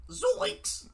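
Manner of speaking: high, loud cartoon yelp; Shaggy. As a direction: squeal it like a scared cartoon teen. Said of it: "impression of Shaggy".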